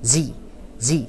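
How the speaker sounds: زي drawn out with a long ee sound, like "thee". Shown as a demonstration. Teacher showing students how "the" sounds before a vowel, drawn-out زي. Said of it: "تتنطق زي".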